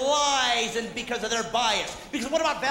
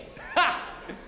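short laugh; 3 semitones higher than usual. Acted. Imitated noise between lines of bit.

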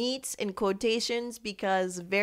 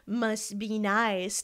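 slow, scornful repeat; mocking quote; much slower than usual. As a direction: drag it out mockingly. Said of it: "What is this".

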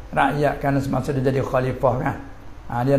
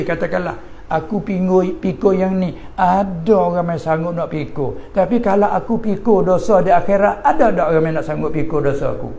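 voicing Umar; 3 semitones higher than usual. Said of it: "Umar kata".

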